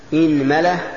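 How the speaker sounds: "إنملة" said as inmala; opening i, middle a. Shown as a demonstration. Teacher lists variants for students, "إنملة" as inmala. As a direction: say "إنملة" with kasra on hamza, fatha on mim. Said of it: "كسر الهمزة".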